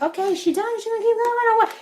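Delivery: mock the mother waiting for her to stop talking; imitating mom, fed up; impatient mother. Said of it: "My mother's just sitting there like".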